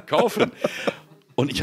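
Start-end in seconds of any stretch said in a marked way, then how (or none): 0.0-0.5 high excited mock call; excited mock shout. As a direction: chant it gleefully higher. Joins caller imitation.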